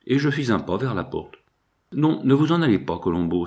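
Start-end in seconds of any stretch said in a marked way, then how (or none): 1.9-3.5 higher, urgent plea to stay; cry out. Acted. Pickman calling his servant back from the door, urgent cry. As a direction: call him back before he leaves. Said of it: "s'écria Pickman".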